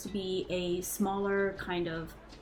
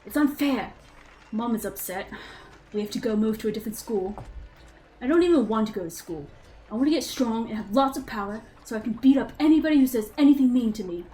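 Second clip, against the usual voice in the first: put-on a light British accent as a sulky boy; British accent diary. Game master reads Zeke's childhood diary to players, light British accent. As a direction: read the boy's diary in a mild British accent. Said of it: "we'll try the accent again".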